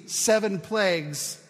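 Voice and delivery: slow, weighty reading of the Greek; slow literal reading. Shown as a demonstration. Preacher slowly reads the Greek to the congregation, weighty and deliberate. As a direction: lay each word down slowly. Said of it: "The Greek literally reads".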